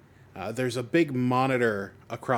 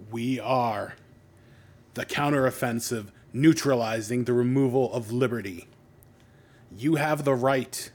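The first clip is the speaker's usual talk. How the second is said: hijacked-airwaves villain speech; distorted voice. Acted. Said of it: "in a distorted voice you hear".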